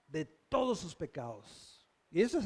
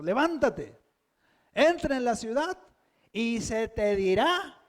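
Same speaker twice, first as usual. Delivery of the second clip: orden firme; 4 dB louder than usual. Retold or imitated. Repite la orden del Señor.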